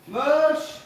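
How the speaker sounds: high, drawn-out dog call; high, carrying summons. Real, not acted. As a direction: holler the name on a high note. Calling a dog.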